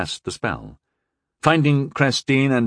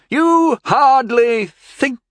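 cutting retort; 7 dB louder, much slower than usual. A narrator's reading. Mother cutting off daughter.

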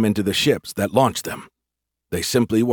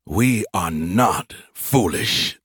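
spat out; much slower than usual. Acted. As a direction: spit it out with contempt. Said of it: "the voice spat".

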